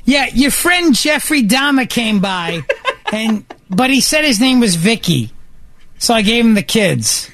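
lightly voiced mother, casually reporting news; imitated oblivious mother. Joking as his oblivious mother.

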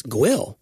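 "Gwill" with a gw glide, drawn out; local pronunciation. Retold or imitated. Quoting a local on the road name, drawn-out "Gwill". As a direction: stretch "Gwill" slowly with the w sounded. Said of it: "someone said".

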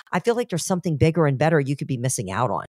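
talking through a burp; words pushed out on a burp. Real, not acted. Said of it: "I'm sorry, I'm burping a lot".

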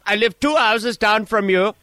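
lightly put-on Spanish-accented English, grumpy neighbour; a hint of a Spanish accent, complaining; lightly voiced Spanish-accented caller; mock Spanish accent. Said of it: "What is that accent?".

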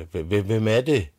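high, loud call toward the gate. Retold or imitated. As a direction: shout out at the door. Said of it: "råbte hun". (dronningen råber højt ud af porten)

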